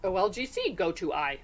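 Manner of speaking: lightly voiced Yoda, words reversed; mild Yoda impression. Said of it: "Who talks like that?".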